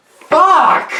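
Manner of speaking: high yelled curse; loud shocked curse. Retold or imitated. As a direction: blurt it out in shock. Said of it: "You're like".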